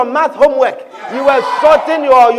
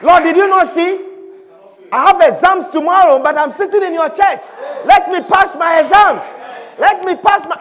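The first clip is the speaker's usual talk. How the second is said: insistent plea; 4 semitones higher than usual. Acted. Student pleads with God before exams.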